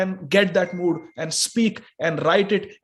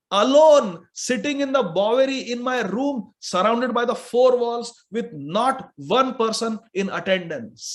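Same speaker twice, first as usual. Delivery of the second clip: Srila Prabhupada; 3 semitones higher than usual. Retold or imitated. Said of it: "is writing".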